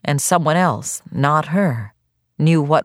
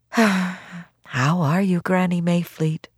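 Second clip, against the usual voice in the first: gentle doctor; 3 semitones higher, 3 dB quieter, slower than usual. Acted. Tired doctor at the sickbed.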